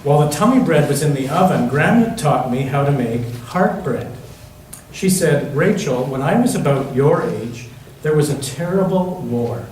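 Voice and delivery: gentle storybook reading voice; reading to children. Acted. Pastor reading a picture book to the children, gentle storytelling. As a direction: read it like a bedtime picture book for the kids.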